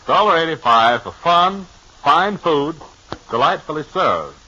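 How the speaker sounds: ad read. Acted. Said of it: "my own capable, distinguished manner".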